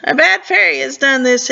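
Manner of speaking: a light laugh through the line; half-laughing king's exclamation; king blaming a bad fairy, half-laughing; amused exclaim. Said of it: "he, he exclaimed".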